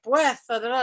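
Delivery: put-on dramatic Castilian accent with a lisped s; hammed-up heavy Spanish accent; Spaniard accent imitation. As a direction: do the theatrical Spaniard, punching the first word. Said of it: "imitate him".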